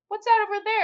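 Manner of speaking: high, urgent fake distraction; mock alarm. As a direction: point at nothing and sell it. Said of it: "she'd be like".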